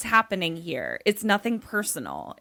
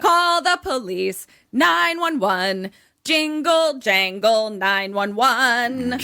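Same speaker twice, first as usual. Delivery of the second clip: emphatic urging; 3 dB louder than usual. Acted. Urging the character to phone police.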